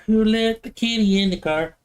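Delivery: milder cooing question. Pretend. Same question again.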